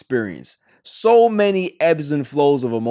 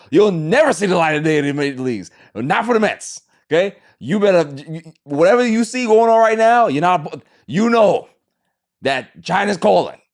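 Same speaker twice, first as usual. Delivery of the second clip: mock angry rant; 4 semitones higher, 4 dB louder than usual. Ranting threat at a struggling player.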